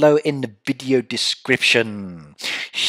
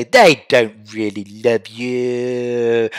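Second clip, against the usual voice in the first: mock wife; 2 semitones lower, much slower than usual. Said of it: "And then my wife can say".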